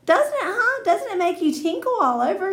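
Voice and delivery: very high, loud, rising pleas; bossy girl begging for agreement; pushy excitement. Acted. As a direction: pester them to agree, squealing. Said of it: "she asked".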